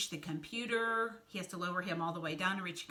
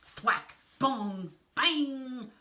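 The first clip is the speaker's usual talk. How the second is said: impact sound words; 5 semitones higher, 5 dB louder, much slower than usual. A narrator's reading. Crash sound effects read out.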